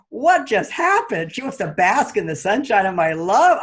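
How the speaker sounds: slow, high bewildered question; shocked. Retold or imitated. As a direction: puzzle over it as if the floor dropped out. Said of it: "I was shocked".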